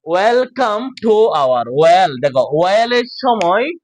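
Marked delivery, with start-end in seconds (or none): 0.1-1.6 measured teacher's Welcome to our; word by word. Shown as a demonstration. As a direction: Welcome to our read slowly, each piece separate. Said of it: "আলাদা আলাদা করে উচ্চারণ করবা".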